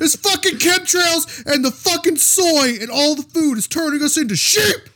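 high, drawn-out mock screaming; hammed-up conspiracy-nut tirade, straining high; Alex Jones rant. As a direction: rant like an unhinged radio crank. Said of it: "start screaming like Alex Jones".

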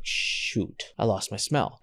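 breathless whisper of dread; dismayed whisper. Retold or imitated. Realizing his smell is gone, in a dismayed whisper. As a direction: breathe it out, barely voiced.

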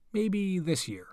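whispered joking aside. Real, not acted. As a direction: drop to a teasing whisper. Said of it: "host's aside joke".

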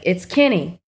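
put-on Kenny said as KIN-ny in a Texas accent; Southern-tinged "Kenny", first vowel like "pin". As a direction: say "Kenny" the Texan way, as "Kinny". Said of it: "it's my Texas accent".

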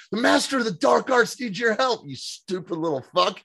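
mock sorcerer. Constantine scolding the girl, hammed-up. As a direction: play the grand dark wizard. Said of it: "he's like".

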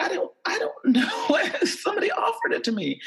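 high, giggly nervous excuse; nervous laughing. Retold or imitated. Caught with weed, she giggles high and nervous. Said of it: "I was like".

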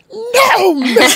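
squeaky high soft-spoken woman finally snapping; a tiny voice at last putting its foot down; very high, small-voiced "no" with a laugh in it; Hooks impression. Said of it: "the little soft-spoken black woman".

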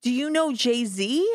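put-on slow, halting stab at a Scottish accent; half-hearted imitation of Scottish teenage girls; mock Scottish accent, drawn out slowly; attempted Scottish accent. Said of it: "I can't do a Scottish accent".

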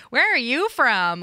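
drawn-out nosy question; imitated curious question. Speaker imitating people who notice the accent, drawn-out question. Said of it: "'cause people are like".

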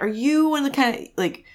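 high, sneering put-on voice; mock him as a self-important nobody; mocking the dad. Sneering at the trucker-hat dad in a mocking high voice. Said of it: "I'm like".

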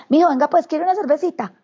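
mucho más agudo, con risa, campechano; invítalo como tío bonachón entre risas; tío paisa cariñoso. Retold or imitated. Tío paisa recibe a Emilio. (tío paisa que recibe al sobrino con una cerveza, voz aguda y risueña)

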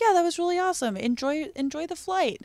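high-pitched polite enthusiasm; mock friendly. Replying by text to the airport stranger, friendly. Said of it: "It starts very friendly".

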